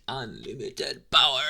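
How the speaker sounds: sudden loud, theatrical burst; mock-dramatic shout. Demon mimicking the summoner's hunger for unlimited power, mock-dramatic shout. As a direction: belt it out like a grandiose villain.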